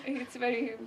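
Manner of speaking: giggling through stage fright; embarrassed nervous giggles; nervous laughter. Real, not acted. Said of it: "sorry, I'm nervous".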